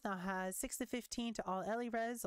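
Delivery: ordinary delivery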